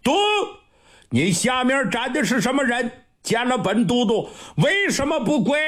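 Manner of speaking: high, fast commanding shout; shouted challenge. Acted. Marshal shouts at the intruder before his desk, high and fast. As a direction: bark the challenge down at him. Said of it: "高声喊".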